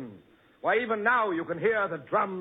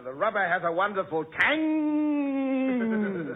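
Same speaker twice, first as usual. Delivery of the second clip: overacting. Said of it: "I hear the speaker overacting".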